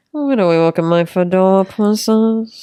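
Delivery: lightly suave smooth talker; daddy voice. Shown as a demonstration. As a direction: show the cool fedora tone. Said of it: "It's more of".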